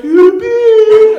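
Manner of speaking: very high, loud mocking squeal; brother's taunt. Older brother teasing his upset sibling, loud high taunt. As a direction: needle them with a piercingly high put-on call. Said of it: "like that to me".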